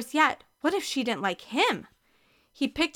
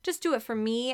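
higher, pleading; 6 semitones higher than usual. Acted. Ashley begging her sister, pleading. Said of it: "Ashley pleaded".

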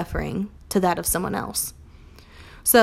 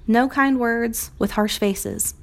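slow emphatic; 3 semitones higher, slower than usual. Shown as a demonstration. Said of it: "quote repeated slowly".

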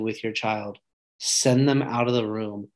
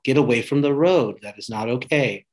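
warning yell; 4 dB louder than usual. Retold or imitated. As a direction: shout the warning at a child near traffic. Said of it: "You're gonna yell".

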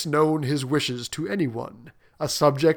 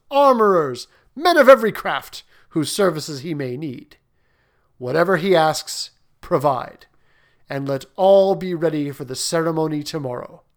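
booming warrior king; 5 dB louder than usual. Acted. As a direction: order it done at once. King commands his officers.

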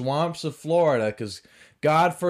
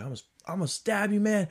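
high, rushed mock threat; screaming man's threat; 11 semitones higher, much faster than usual. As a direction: imitate a frantic man, fast and high. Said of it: "This guy's screaming".

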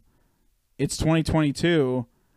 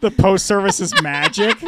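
high, laughing through words; 6 semitones higher, 8 dB louder than usual. Real, not acted. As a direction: crack up mid-sentence. Laughing at teacher.

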